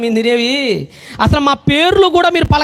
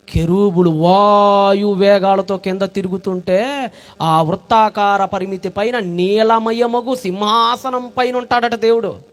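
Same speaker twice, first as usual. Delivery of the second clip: awed hush; 4 semitones lower, slower than usual. Acted. Awed vision description.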